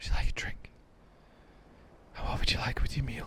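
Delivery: very quiet, breathy, nearly inaudible whisper. Retelling how a bartender on a trip spoke, imitating a whispering bartender. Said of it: "she's literally whispering".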